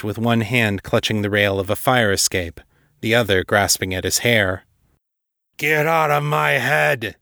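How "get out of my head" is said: high, drawn-out tormented cry; anguished shout. A narrator's reading. Angry, terrified man shouting at what's inside his head, anguished shout. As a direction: shout it slowly, in anguish, pitched up. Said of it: "he shouted".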